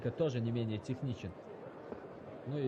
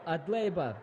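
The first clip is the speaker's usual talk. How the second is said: excited commentary; 6 semitones higher than usual. Real, not acted. Commentator at the knockout.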